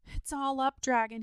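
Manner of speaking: urgent, high-pitched shout of news; excited shout. A narrator's reading. Boy warning the dragon as soon as he sees him, shouting. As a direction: call out high and loud. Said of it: "he shouted as soon as".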